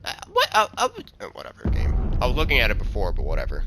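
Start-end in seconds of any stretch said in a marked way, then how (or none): 0.0-1.0 surprised. Real, not acted. Sudden confusion in the game.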